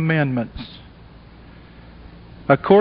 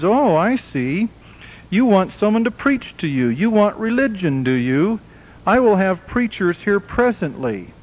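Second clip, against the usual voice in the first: smug; 4 semitones higher than usual. Retold or imitated. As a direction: play a smug tempter who has you figured out. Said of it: "with a smug, wise grin".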